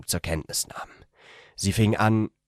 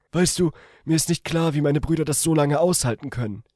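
much higher female character voice; 10 semitones higher, 4 dB louder, faster than usual. A narrator's reading. The woman tells him in bed, in a much higher female voice. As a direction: voice her as a shy young woman, gently.

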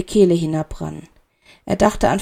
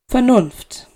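higher, lifted; higher echo; first take higher; 4 semitones higher than usual. A narrator's reading.

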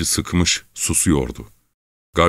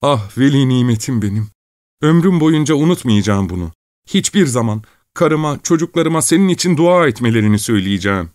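put-on higher, giddy young peasant; cry of joy; 7 semitones higher, 3 dB louder than usual. A narrator's reading. Young peasant grabs the money, higher giddy cry of joy. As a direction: burst out in greedy joy. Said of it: "sevinç çığlıklarını".

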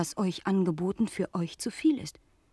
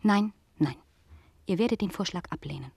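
cold refusal. Acted. Frau von Pomré refuses coldly.

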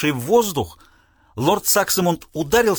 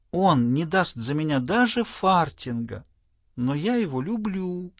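coy daughter; 3 semitones higher, slower than usual. Acted. Pam defends her love.

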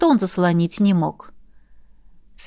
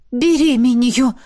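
breathless, slow and broken; ragged exhale; 3 semitones higher, 3 dB louder than usual. A narrator's reading. Ravena answers Miranda out of breath, ragged. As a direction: gasp it out between breaths. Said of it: "рвано выдохнула она".

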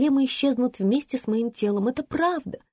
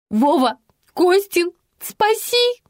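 loud yell rising much higher; screaming for help; 10 semitones higher, 5 dB louder, slower than usual. A narrator's reading. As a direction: scream for rescue across the corridor. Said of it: "с воплем".

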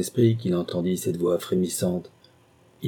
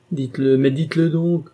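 demanding outburst; 8 semitones higher, 5 dB louder than usual. A narrator's reading. Mistress confronts the marquis.

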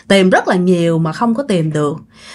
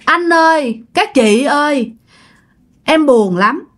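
higher, plaintive calls to the family, lightly acted; retold tearful spirit; 4 semitones higher than usual. Spirit tells mother and siblings she is sad, mildly tearful. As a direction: call out in hurt, only a touch tearful. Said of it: "khóc quá trời khóc luôn".

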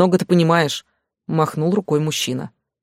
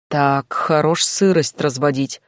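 irritated wince; slower than usual. Acted. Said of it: "поморщился мужчина".

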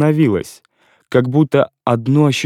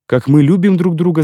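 raised-pitch cry of joy; he echoes her words in a glad cry; exclaimed; 6 semitones higher than usual. A narrator's reading. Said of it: "закричал я".

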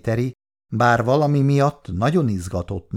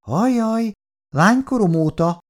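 dreamy; 10 semitones higher than usual. Acted. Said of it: "mondta álmodozón az asszony".

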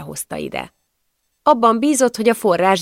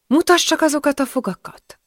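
sharp, bossy order, higher; gruff command; 9 semitones higher than usual. A narrator's reading. Widow ordering the girl to open her mouth, gruff. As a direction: demand to see her teeth. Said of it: "mire ő rám mordult".

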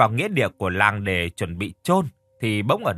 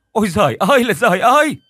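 loud high wail; shriek; 9 semitones higher, 7 dB louder than usual. Acted. Villager finding the body, shrieking wail. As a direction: shriek in horror. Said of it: "hét toáng lên".

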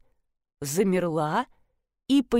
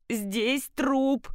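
repeated; 4 semitones higher than usual. Acted. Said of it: "снова долетело снизу".

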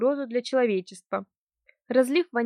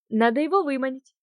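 fake enthusiasm; 3 semitones higher than usual. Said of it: "изобразила воодушевление".

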